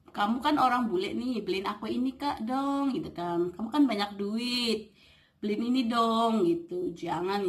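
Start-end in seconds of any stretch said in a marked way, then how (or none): 0.1-2.9 higher-pitched wheedle for a gift; mock wheedling. Indonesian imitating someone begging a foreigner for gifts, mock wheedling. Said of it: "jangan celamit". 3.5-6.4 lightly acted wheedling for a present; mock wheedling. Imitating someone pestering a rich foreigner, mock wheedling. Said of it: "jangan celamit".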